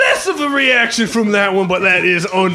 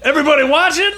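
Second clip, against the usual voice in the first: showman call; 8 semitones higher, faster than usual. Acted. Camp showman addressing campers.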